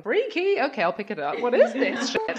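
bemused, ending in a laugh; amused mock puzzlement. Picking up her nan's landline, puzzled and ending in a laugh.

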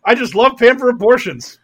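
a hint of mock eagerness; eager Herschel Walker. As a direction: call out a generous offer from a car. Voicing Herschel Walker driving by.

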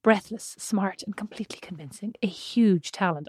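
mock Russian accent reading a blurb, partly whispered. Reading a book endorsement aloud in a joke Russian accent. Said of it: "That's like your Russian accent".

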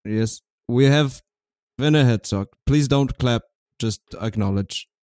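put-on German accent, measured show opening; German TV host. Host welcomes viewers to German cable access, stiff German voice. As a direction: formally present the guest in a halting German accent.

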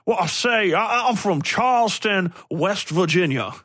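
high, hammed-up West Virginia accent; wrong Southern accent. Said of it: "the wrong accents being like".

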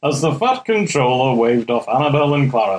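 put-on children's railway story narrator; impression of a Liverpudlian storyteller; a famous drummer. Narrating Thomas the Tank Engine, as an impression of a musician. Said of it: "narrated by originally a musician".

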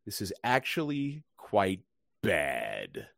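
mock impressed chef. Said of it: "Chef acts impressed".

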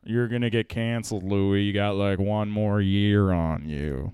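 low slow deadpan prophecy. Acted. Stephen Wright deadpan soothsayer.

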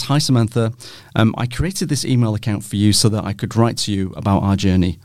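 fighting back tears on each line; reading through tears. Real, not acted. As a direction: voice catching while reading aloud. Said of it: "We're not gonna get through this".

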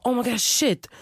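panicked high oh my God; startled curse. Retold or imitated. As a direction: blurt it out in a shock. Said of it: "Och han bara".

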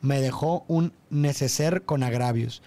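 recited lyric, evenly; reading lyrics. Shown as a demonstration. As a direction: read the lines like a poem.

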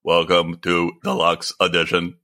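slow, level monotone show welcome; mock monotone broadcaster. Shown as a demonstration. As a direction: drone the welcome out slowly on one note. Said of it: "We're not monotone anymore".

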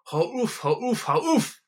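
drill-sergeant bellow at the pool players; roar. Acted. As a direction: bellow it again and again. Giant repeats his roar.

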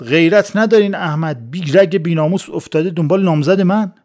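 loud accusing yell at his rival; shouting. Acted. Hassan yells at Ahmad over his fiancée, loud shout. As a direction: shout it at Ahmad in jealous rage. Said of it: "حسن داد زد".

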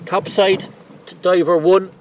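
loud, high radio callout. Real, not acted. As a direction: hail the diver over the radio. Boat calls diver on radio.

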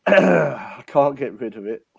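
throat-clearing cough, slow and strained; coughing fit. Real, not acted. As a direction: clear the throat, then speak slowly. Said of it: "if I cough in spluttering a bit".

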